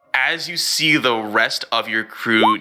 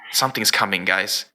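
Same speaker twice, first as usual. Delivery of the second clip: lightly processed robotic voice; voice changer; faster than usual. Acted. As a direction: speak as if through a voice changer. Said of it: "turn on my voice changer".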